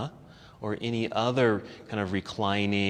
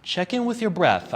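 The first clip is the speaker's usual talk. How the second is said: normal talking voice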